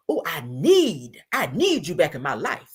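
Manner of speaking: drawn-out mock plea on "need"; slow, put-on longing; mock pleading. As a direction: imitate a begging ex, stretching "need". Mocking his pleading text.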